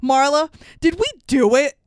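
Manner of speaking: hint of a kid blurting an awkward question; mock twelve-year-old. Narrator asking Marla on the phone, mock childish question. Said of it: "He's like a fucking twelve-year-old".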